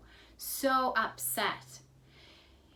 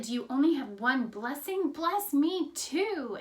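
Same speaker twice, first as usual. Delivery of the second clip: raised voice, begging without real tears; mildly plaintive, higher on the final plea; retold tearful plea; 5 semitones higher, 4 dB louder than usual. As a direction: act out a crying son's appeal. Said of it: "he's really crying at this point".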